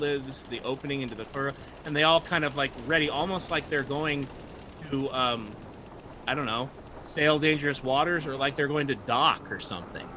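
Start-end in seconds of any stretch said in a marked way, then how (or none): none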